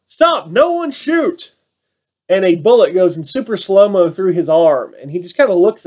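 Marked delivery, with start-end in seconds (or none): 0.0-1.5 high mock command from a police officer; officer shouting. Mocking the movie cop: high, stretched shout. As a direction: yell it like a panicky cop, stretching the last words. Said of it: "you hear the officer goes".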